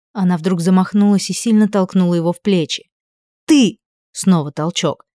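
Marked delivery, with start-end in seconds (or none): 3.5-3.8 one high loud word, pushing; furious shout with a shove. A narrator's reading. Shoves him on each word.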